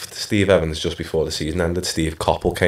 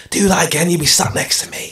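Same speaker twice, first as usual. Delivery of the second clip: higher, mock Scottish manager warning; Scottish accent; 11 semitones higher than usual. Scottish manager threatens to bench the young player, in a mock accent. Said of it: "In a Scottish accent".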